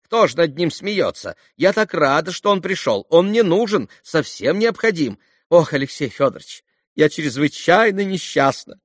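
высокий, взволнованный голос светской дамы; дама в смятении, на высоких нотах; взволнованная дама. A narrator's reading. Голос госпожи Хохлаковой. (восторженная дама в смятении)

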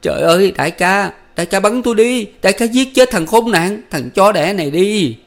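high, loud, crying plea; tearful wailing. A narrator's reading. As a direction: beg through sobs, full of remorse. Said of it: "vừa khóc vừa mếu máo nói".

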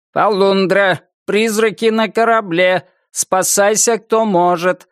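high metallic robot barker. Acted. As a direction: mechanical carnival robot voice. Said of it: "металлическим голосом".

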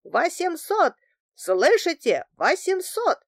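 insistent shout to someone leaving; calling after someone. A narrator's reading. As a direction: call the bid down a stairwell. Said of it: "вдогонку мне понеслось по гулкому пространству".

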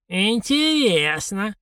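slow, drawn-out letdown; disappointed drawl. A narrator's reading. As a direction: stretch it out, disappointed. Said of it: "разочарованно протянула старушенция".

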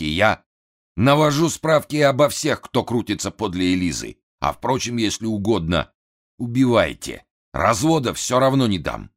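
высокий взвинченный голос хана; капризный напуганный вельможа; нервный хан. A narrator's reading. (взвинченный голос хана)

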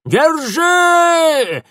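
very high, loud howl; old woman howling at the rower; howling shout. A narrator's reading. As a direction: howl it across the rapids. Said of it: "взвыла старуха".

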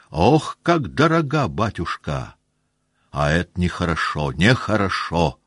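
a hint of a gruff old soldier lecturing; earnest old officer. The old staff captain lecturing young Rostov, mildly heated. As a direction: speak of regimental honour with feeling.

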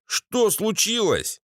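high, slow question; bespectacled husband's voice. A narrator's reading. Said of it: "Голос очкарика". (высокий протяжный вопрос очкарика)

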